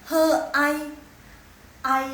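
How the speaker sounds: ai said on the third tone, dipping then rising; HE and AI sounded out separately, loud. Shown as a demonstration. Teacher spelling out a Mandarin syllable, sounded out deliberately. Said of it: "nada ketiga".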